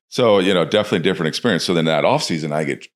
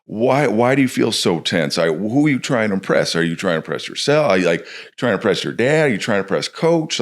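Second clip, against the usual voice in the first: lightly voiced coach, higher, probing gently; caring coach questions; 4 semitones higher than usual. Coach gently asking a tense young player what's wrong. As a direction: coax the kid with curious questions. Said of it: "You gotta be like".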